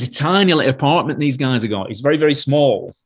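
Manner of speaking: lightly imitated Lancashire sound man; Lancashire accent. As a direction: slip into a mild Lancashire accent. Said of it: "Hope you can understand my Lancashire accent".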